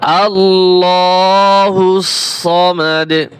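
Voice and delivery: "সামাদ" with a thick, full সদ, not thin like সিন; slow "আল্লাহুস সামাদ", sad made heavy; tajweed emphasis on "সামাদ". Shown as a demonstration. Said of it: "মোটা করতে হবে".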